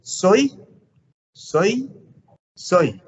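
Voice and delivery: Soy said three times with changing pitch; three tones of soy. Shown as a demonstration. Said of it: "He says".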